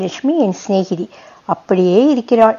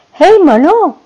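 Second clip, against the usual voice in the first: high, louder call across the traffic; 7 semitones higher, 3 dB louder, much slower than usual. Acted. Friend calling out to him from her scooter, loud. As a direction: hail him by name, bright and loud.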